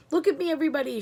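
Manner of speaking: high, loud delighted call; gleeful shout. A narrator's reading. Grandma Josephine calling out while flying, high and loud. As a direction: show off to everyone, loud and high. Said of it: "shouted Grandma Josephine".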